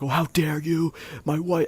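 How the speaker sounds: high, loud jealous yell at me; hammed-up outraged husband shouting; retold furious yell. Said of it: "just, like, screaming at me".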